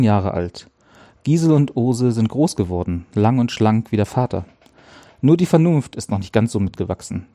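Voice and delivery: story narration. Acted. Narrator opens chapter one of the girls' story, even storytelling. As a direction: read the chapter to listeners calmly. Reads audiobook chapter opening.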